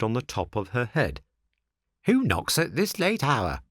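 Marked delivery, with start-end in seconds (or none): 2.0-3.6 snail calling. A narrator's reading. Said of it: "she called".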